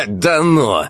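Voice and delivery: high, loud disbelief; incredulous. Acted. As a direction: scoff in disbelief. Эльнур не верит. (недоверчиво)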